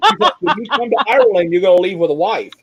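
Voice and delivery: high, giggling retelling of her teasing; laughing through quote. Retold or imitated. Retelling a friend's matchmaking tease, laughing.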